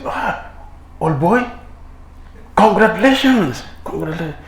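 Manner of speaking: high, loud hearty congratulations; jubilant friends. Acted. Friends cheer the new judge, high and loud. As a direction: clap him on the back.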